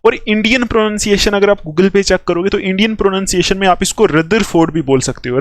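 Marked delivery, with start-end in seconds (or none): 4.1-4.7 "रदरफोर्ड" with the middle r sounded; "रदरफोर्ड" as "rudder-ford"; Indian pronunciation. Shown as a demonstration. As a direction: pronounce the r before f in "रदरफोर्ड". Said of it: "आर को pronounce कर भी सकते हो".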